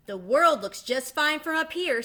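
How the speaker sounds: high, loud, cheeky; second duckling arguing from the nest; smug duckling. Acted. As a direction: content to stay put. Duckling refusing.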